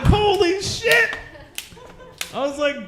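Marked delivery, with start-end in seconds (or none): 0.0-1.2 higher, louder, slow stunned exclaim; shocked. Retold or imitated. Boyfriend stunned she came, loud slow shock. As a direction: drag out the shock, loud and high.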